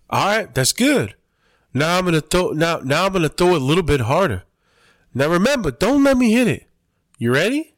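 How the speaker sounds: high, sing-out mock instruction, peaking on the warning; imitated fighter's coaching. Fighter warning he'll throw a bit harder, high emphatic imitation.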